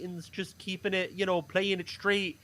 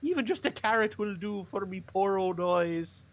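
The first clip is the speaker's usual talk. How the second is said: put-on scared poor boy. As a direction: plead like a hungry lad afraid of his family. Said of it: "I'm supposed to keep the voice up".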